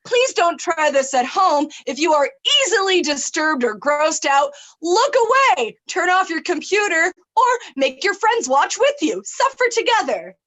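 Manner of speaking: bright loud mock announcement; hammed-up safety warning; disclaimer announcer. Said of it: "I can do my disclaimer".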